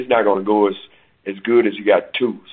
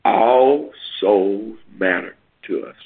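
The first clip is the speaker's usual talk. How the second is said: slow and deliberate; slower than usual. Shown as a demonstration. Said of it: "Listen carefully to me".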